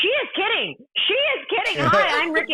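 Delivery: hurried apology. Retold or imitated. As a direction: laugh it off for your friend. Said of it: "Ricky's like".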